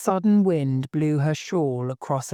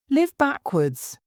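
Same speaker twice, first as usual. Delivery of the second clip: slow, much higher astonished repeat; great surprise; 11 semitones higher, 3 dB louder than usual. Acted. Alice echoing the Queen in great surprise, slow and high. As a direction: echo the words back in disbelief. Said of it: "Alice repeated in great surprise".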